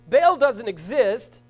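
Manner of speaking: slow, loud declaration; firm pulpit pronouncement; emphatic preaching. Real, not acted. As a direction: drive it home slowly to the congregation.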